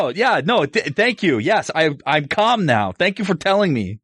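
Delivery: high, hurried, sheepish thanks; flustered thanks. Acted. Character thanks the friend who sensed his anger, flustered and high. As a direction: backpedal and thank him, a little embarrassed. Embarrassed reply after being told calm.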